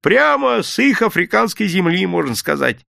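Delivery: high, bright hawker's patter; cheerful sales pitch. A narrator's reading. Vendor cheerfully pitches oranges to a gentleman. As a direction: sell it gladly. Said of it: "весело заговорил".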